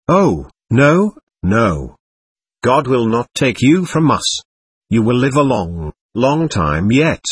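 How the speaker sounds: a mild, lightly voiced cry of protest, slowing on the second long; cried out. Lady pleading with the ailing elder, mild cry of protest. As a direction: protest that he will live, gently cried, not shouted. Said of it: "cried the lady".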